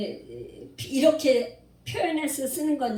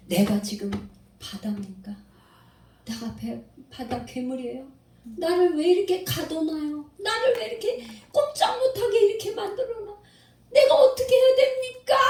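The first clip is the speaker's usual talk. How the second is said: pleading protest that climbs higher; Job protesting; 5 semitones higher than usual. Retold or imitated. Preacher voicing Job protesting to God, rising indignant plea. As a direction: voice Job's rising complaint to God. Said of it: "항변을 하는 거야".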